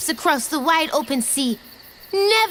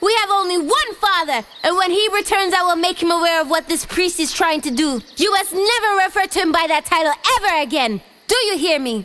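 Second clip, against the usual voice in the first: furious yell; 3 semitones higher, much faster than usual. Acted. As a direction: yell with full force. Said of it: "yelled at the top of her lungs".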